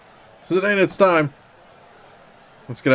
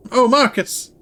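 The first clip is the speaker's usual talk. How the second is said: high swooning lovestruck cry; swooning falsetto; 10 semitones higher than usual. Acted. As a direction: gasp his name, high and dramatic. Acting princess role in play.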